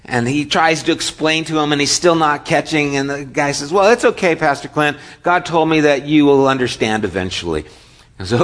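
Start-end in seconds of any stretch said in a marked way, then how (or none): 3.7-7.6 put-on eager car wash boy. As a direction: pipe up like a keen kid at the door.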